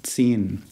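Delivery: "Zehn" with a ts start and a long, drawn-out e; German Zehn. Shown as a demonstration. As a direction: stretch the vowel in "Zehn". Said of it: "drawn out vowel sound in the middle".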